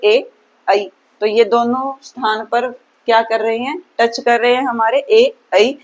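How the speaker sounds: ए then ऐ said clearly; vowel demo. Shown as a demonstration. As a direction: sound out ए and ऐ. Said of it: "आप बोल करके देखिए".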